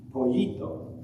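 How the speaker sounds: pollito said slowly in Spanish, poh-YEE-toh; Spanish word. Shown as a demonstration. Teacher models pollito for the children, careful Spanish. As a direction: model pollito for the kids to repeat. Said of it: "can you say pollito?".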